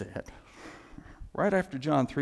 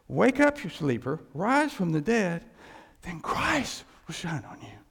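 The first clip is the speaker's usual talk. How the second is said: preaching call. Acted. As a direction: rouse the church like a preacher. Preaching the verse.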